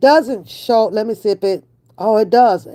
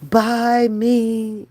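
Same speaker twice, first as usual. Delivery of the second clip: car whispering; much slower than usual. Retold or imitated. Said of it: "it was whispering".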